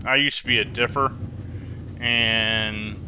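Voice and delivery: talking while chewing gum; words around a wad of gum. Real, not acted. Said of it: "I apologize for the gum chewing".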